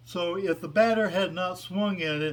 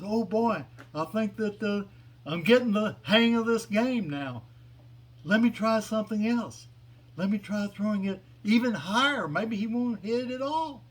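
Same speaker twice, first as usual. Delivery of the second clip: excited creature; 5 semitones higher than usual. Acted. Creature voiced, excited by pitch.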